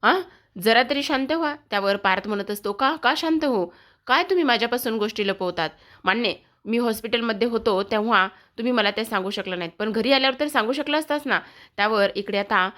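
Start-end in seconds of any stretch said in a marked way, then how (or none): 0.0-1.6 rising, irritated protest, pitched higher; a heated wife cutting him off, higher pitched; angry outburst. Acted. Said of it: "Kavya चिडते". 2.7-11.4 rising angry rush, partly faster; angry retort. Acted. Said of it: "रागातच".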